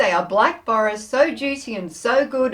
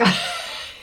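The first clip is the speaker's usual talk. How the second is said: put-on old lady drinking noise; 6 dB quieter than usual. Shown as a demonstration. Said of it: "I go, like".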